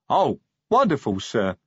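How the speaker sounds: a touch of troll delight; happy troll. A narrator's reading. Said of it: "said Detritus happily".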